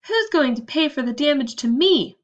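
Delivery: a mild storybook wail; hammed-up self-pity. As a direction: complain with a touch of a wail. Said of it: "wailed Maud".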